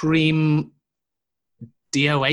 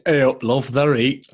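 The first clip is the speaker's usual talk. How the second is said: put-on Yorkshire accent; 4 dB louder than usual. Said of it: "It's, it's Yorkshire".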